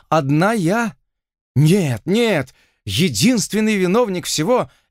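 lamenting lady. Acted.

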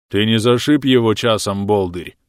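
nasal, wary mumble through a broken nose. Acted. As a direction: speak warily through the nose. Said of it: "Опасливо прогундосил". (опасливо, в нос)

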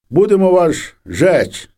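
high, slow threatening shout; soldiers shouting a threat. A narrator's reading. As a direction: bellow the threat slowly to scare them. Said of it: "кричать". (погрозливий повільний високий крик)

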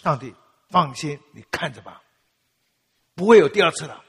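a proud loud vow of never again; loud confident vow. Retold or imitated. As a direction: declare it boldly to God, sure of yourself. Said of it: "我可以很大声地说".

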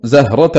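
زهرة said zaharata; fatha on ha. Shown as a demonstration. Teacher showing Yaqub's reading, زهرة as zaharata. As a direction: put an a after the h in زهرة. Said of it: "بفتح الهاء".

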